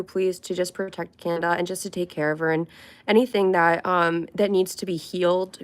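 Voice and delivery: earnest spontaneous prayer. Real, not acted. Vlogger praying for viewer Kanda, earnest prayer. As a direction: pray it sincerely, plainly.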